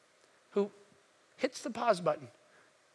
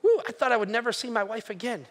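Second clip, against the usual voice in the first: super excited; 3 semitones higher, 6 dB louder than usual. Acted. A healed leper whoops about seeing his wife again. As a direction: cheer like you've got your life back. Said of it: "They're probably just super excited".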